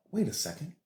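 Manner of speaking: high-pitched retold disbelief; mock astonishment at yourself; acted sudden realization. Acting out own sudden realization.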